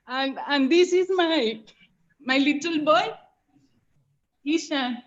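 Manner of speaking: crying. Real, not acted. Emotional plea to her guru.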